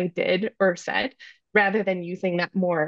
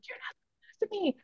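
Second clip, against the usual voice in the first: high, soft mock child yell; imitating son's yell; 11 semitones higher, 10 dB quieter, much faster than usual. Mother retelling how her son yelled back, high child mock yell. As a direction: squeak back like a defiant little kid. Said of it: "so my child yells".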